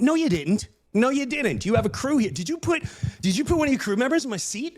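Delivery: indignant challenge. Retold or imitated. Passenger accuses worker of giving away seat, indignant. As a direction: imitate an outraged passenger cross-examining staff. Acted quarrel with airline worker.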